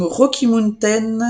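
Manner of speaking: self-conscious English accent on the name, quick first try; clumsy English pronunciation of "Rocky Mountain". Real, not acted. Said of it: "j'ai mon accent anglais qui est pourri".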